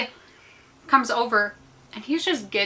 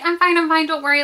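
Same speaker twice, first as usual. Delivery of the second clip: higher-pitched, hasty brush-off; retold protest, pitched up to wave off help; insistent reassurance; 6 semitones higher than usual. Swimmer waving off the lifeguard's help, insistent.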